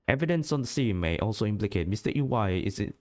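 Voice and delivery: formal TV news read; news announcer voice. Acted. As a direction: read it like an evening news anchor. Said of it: "The announcer voice".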